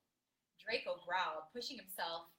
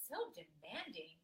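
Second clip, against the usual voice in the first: smirking; slower than usual. Acted. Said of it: "he smirked".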